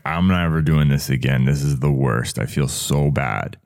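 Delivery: low, mildly dejected self-talk; defeated. Retold or imitated. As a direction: voice sinking as if giving up. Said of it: "feeling so defeated".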